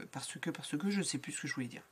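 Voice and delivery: whispered, fading mid-thought; trailing off. Real, not acted. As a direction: lose the thread and fade to a whisper. Loses her train of thought.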